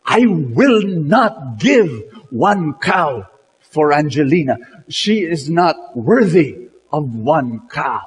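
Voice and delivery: steady, deliberate refusal; firm voice. Acted. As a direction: stand your ground, slowly and firmly. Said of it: "with a very firm voice".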